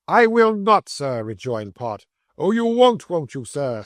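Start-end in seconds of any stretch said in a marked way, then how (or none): 0.1-1.2 Pott flares up, voice jumping high; high indignant refusal. A narrator's reading. Pott refusing Slurk in the quarrel, high and indignant. 2.4-3.8 high mocking jeer on oh, you won't; taunting. A narrator's reading. Slurk taunting Pott before the room, high and mocking. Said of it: "in a taunting manner".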